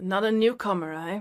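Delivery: deep, gravelly, nasal character voice. Voicing a squashed-faced character greeting Remus: gravelly, deep, nasal character voice. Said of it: "it's kinda gravelly, kind of deep, um, a little bit nasal".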